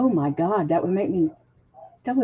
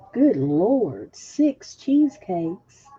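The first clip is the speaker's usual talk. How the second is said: amazed; 3 semitones higher, 4 dB louder, much slower than usual. Real, not acted. Reacting to a viewer's six cheesecakes, amazed. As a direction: stretch it out in amazement.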